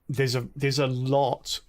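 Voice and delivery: hiccuping mid-sentence; slow, broken by hiccups. Real, not acted. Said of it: "excuse me, I've got the hiccups".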